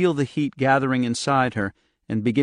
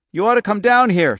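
loud cry; 10 semitones higher, 8 dB louder than usual. Acted. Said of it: "Charlie cried loudly".

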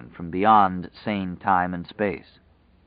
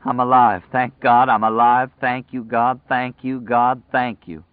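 crying with relief; 4 semitones higher, 5 dB louder than usual. A narrator's reading. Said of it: "He began to cry".

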